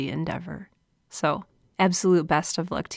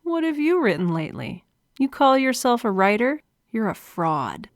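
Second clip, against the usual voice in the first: nagging inner voice; 4 semitones higher than usual. Acted. Inner critic questioning a writer's declaration, nasty and doubting. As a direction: needle them with doubting questions, then condemn. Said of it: "that voice is going to say".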